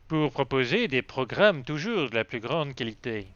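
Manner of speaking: mock advertising slogan voice; ad voiceover. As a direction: sell it like a TV ad tagline. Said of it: "on dirait que j'ai bossé dans la publicité?".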